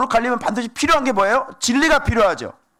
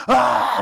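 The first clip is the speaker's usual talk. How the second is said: drawn-out wordless mock yell; acted yell. Preacher imitating a child screaming for mom, yelling. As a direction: let out a child's holler for attention. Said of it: "막 소리 지르면".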